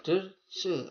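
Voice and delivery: high, loud, rolled arrivederci; Italian accent. Shown as a demonstration. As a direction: belt out arrivederci Italian style. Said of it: "orang sana akan mengucapkan".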